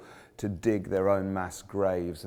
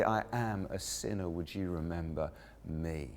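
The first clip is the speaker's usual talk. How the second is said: hushed plea; 4 semitones lower, 9 dB quieter than usual. Retold or imitated.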